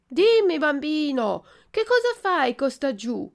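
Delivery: high, loud call from far overhead; calling from above. Acted. Pigeon calling down to the weeping puppet, loud high call. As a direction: call down to the boy from the sky. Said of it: "gli gridò da una grande altezza".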